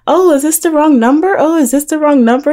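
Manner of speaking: high, loud put-on innocent voice; mock-innocent, high-pitched phone act; friend on the phone. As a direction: imitate a friend faking a misdial. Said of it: "on the phone talking to him".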